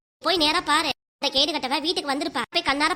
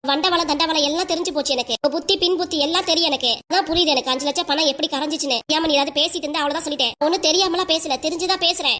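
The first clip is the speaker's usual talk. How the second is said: angry accusation. Acted. Daughter-in-law accusing mother-in-law over the money, angry. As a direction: hurl the accusations at her.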